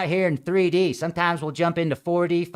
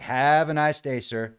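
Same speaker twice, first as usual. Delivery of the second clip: soft, fading polite brush-off; politely ending the argument; calm, dismissive; 3 semitones lower, 3 dB quieter than usual. Retold or imitated. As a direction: brush him off quietly. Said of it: "I'm like".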